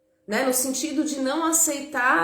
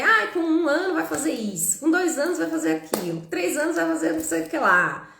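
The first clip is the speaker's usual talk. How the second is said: expectant parent; 6 semitones higher than usual. Retold or imitated. Quoting typical parental expectations.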